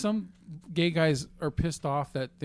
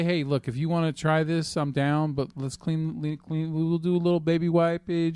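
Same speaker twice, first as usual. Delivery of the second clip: ordinary delivery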